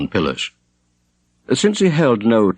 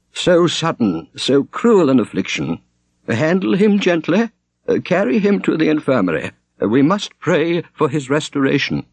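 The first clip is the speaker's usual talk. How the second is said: much higher, fussy anxious abbot; fluttering abbot; 8 semitones higher than usual. A narrator's reading. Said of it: "fluttered Abbot Heribert".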